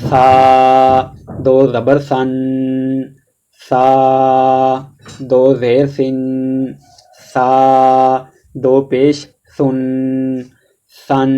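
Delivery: سا read gently with tongue between the teeth; soft Sa recitation. Shown as a demonstration. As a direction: recite سا softly, no whistle. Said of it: "اس کو نرمی سے پڑھا جاتا ہے". (سا کو نرمی سے پڑھیں)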